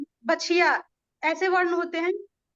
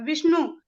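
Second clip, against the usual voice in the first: विष्णु with weight on the opening वि; stress on first syllable. Shown as a demonstration. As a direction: lean on वि in विष्णु, then let the ending fall. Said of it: "वी पे जोर दे रहे हैं".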